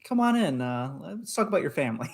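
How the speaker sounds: put-on welcoming host patter; podcast host invitation. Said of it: "a podcast that is like".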